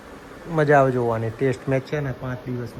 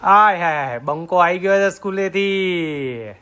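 excited greeting; 3 semitones higher, 3 dB louder, slower than usual. Real, not acted. Greeting son home from school.

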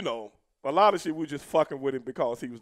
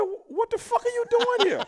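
loud, high-pitched retold challenge; incredulous outburst; 8 dB louder than usual. Veteran confronting the rookie at the airport, loud incredulous outburst. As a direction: act out a loud "what on earth" reaction.

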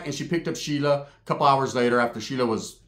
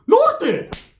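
loud, high imitated battle cry; shouted gang call; 14 semitones higher, 5 dB louder than usual. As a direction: yell it out like a primo's challenge. Primo yells gang call, retold.

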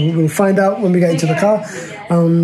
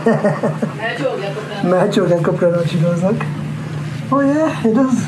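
muffled through hand-held mask; speaking behind a mask; 4 dB quieter, much faster than usual. Real, not acted. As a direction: voice blocked by face covering. Seen 1: Painted mask held over whole face, covering mouth throughout.

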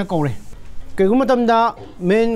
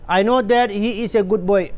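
slow reading; much slower than usual. Shown as a demonstration. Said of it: "ꯁꯤ sentence ꯑꯃ ꯅꯠꯇ꯭ꯔꯥ".

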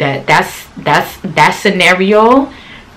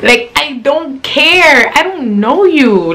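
slow dismissive; 6 semitones higher, slower than usual. Real, not acted. Dismissive, slowed.

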